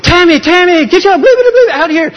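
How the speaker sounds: high, loud call from outside the house; retold yelling. Someone outside calls Tammy out of the house, loud retold yelling. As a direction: bellow her name from the street. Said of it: "we hear somebody outside yelling".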